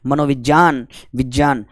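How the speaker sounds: "मनोविज्ञान" and "विज्ञान" said with "jyaan"; "विज्ञान" as "vijyaan", "मनोविज्ञान" as "manovijyaan"; correct pronunciation. Shown as a demonstration. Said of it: "इन सब का उच्चारण जो है आप शुद्ध करें".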